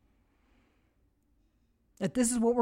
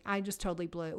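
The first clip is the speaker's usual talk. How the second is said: humble confession; 5 semitones lower, 9 dB quieter, faster than usual. Shown as a demonstration. Confessing to God.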